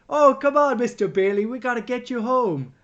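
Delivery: hammed-up barman urging a regular home; bartender voice. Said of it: "Martini goes".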